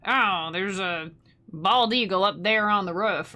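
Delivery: a light mocking American voice. Mocking American friends, a light put-on voice. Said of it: "making fun of you guys".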